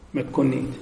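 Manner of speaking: ordinary talk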